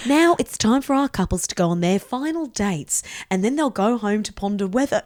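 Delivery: weighty, dramatic presenter intonation; TV host impression. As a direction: announce it as a mock reality-show host. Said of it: "doing some good impressions of her".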